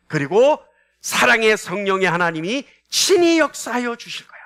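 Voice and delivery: emphatic preaching voice, swelling on key words; confident believer. Acted. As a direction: voice the trusting heart with rising conviction. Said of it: "우리 마음은 어때요?".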